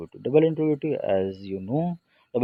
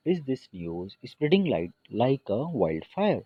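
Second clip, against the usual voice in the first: English read out word by word, slowly; slow model sentence; 3 semitones higher, much slower than usual. Shown as a demonstration. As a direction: dictate it so the class can follow. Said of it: "Is this news spreading like a wildfire?". (धीरे-धीरे बोला गया उदाहरण)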